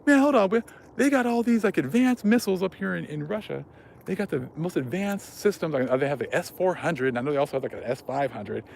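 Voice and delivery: high mock outrage over old missiles; pissed-off prepper. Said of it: "He's like".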